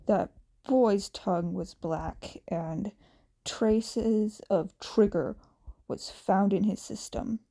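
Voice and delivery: a hint of a grim, weary teacher; understated stern hero reporting bad news; gruff Aizawa. Aizawa explains gravely.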